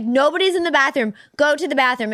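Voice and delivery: a touch of yelling, retold. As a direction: re-enact telling off a drunk husband, half-strength. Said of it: "I'm yelling at him".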